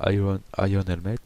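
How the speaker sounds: English words in a real French accent; French speaker attempting English. Real, not acted. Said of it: "quel accent, quel accent, mon dieu".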